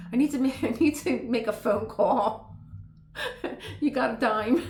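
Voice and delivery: loud laughing fake phone excuse; laughing mock excuse. Escaping a bad date, loud laughing mock plea. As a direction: play the escape line through laughter. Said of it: "here come the eighties again".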